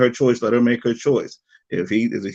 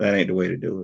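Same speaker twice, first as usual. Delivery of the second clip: ordinary delivery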